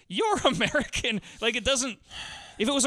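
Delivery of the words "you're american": slow mock-British imitation, a laugh creeping in; faint British accent. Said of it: "a very faint British accent, sort of".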